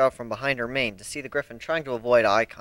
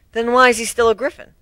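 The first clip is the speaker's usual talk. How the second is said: put-on higher, earnest young mare introducing herself; Twilight Sparkle voice; 10 semitones higher, 6 dB louder than usual. Introducing herself to the new crew, earnest pony voice.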